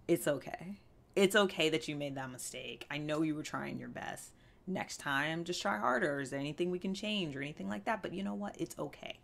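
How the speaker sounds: gentle reassurance. Pretend. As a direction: comfort it like a friend who messed up. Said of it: "you'd say".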